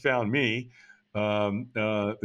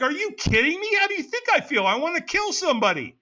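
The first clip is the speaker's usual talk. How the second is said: much higher, mock-furious hungover rant; hungover threat; 11 semitones higher than usual. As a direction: snap back at the early caller, half-joking. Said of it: "I'm threatening this guy".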